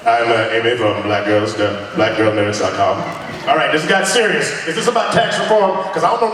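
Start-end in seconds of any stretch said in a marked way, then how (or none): 0.0-3.0 mock staff meeting intro. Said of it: "feel like I'm in a Washington, D C, like, uh, staff meeting".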